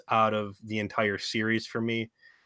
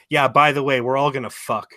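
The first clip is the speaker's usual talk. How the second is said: high, loud hammed-up old wife; 6 semitones higher, 8 dB louder than usual. Telling a friend about the old wife, hammed-up and loud. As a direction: camp it up as the eager old wife. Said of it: "her old wife ... is like".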